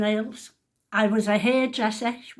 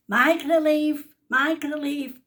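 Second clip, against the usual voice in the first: raised, insistent call; shouting; 6 semitones higher, 6 dB louder than usual. Retold or imitated. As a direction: demand it loudly from across the room. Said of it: "She's shouting".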